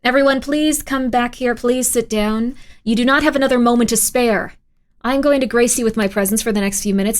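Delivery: commanding, imperious address; ranting dictator speech. Pretend. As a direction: lord it over the crowd. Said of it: "Can you do a dictator impression? Absolutely".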